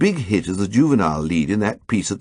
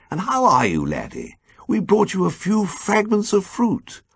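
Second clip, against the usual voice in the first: buoyant; 11 semitones higher than usual. A narrator's reading. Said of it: "he said buoyantly".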